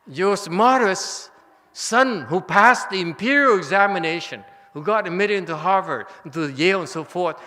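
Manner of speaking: worked-up sermon to the crowd; excited preaching. Real, not acted. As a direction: build it up with fire. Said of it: "I get very emotional and very excited".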